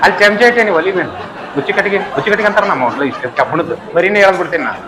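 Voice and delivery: laughing, flustered refusal; laughing swami. Retold or imitated. Swami laughing nervously as the ladle falls in his plate.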